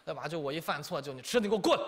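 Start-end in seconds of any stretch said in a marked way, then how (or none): 1.1-1.8 mock mom yell. 妈妈喊孩子过来.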